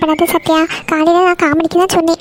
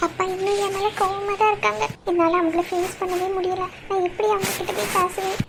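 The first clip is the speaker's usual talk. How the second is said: higher-pitched, tearful worry; 4 semitones higher, 12 dB quieter than usual. Acted. Daughter afraid to face her angry father, tearful. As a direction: fret tearfully, voice held high. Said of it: "அழுதுட்டு நிக்கா".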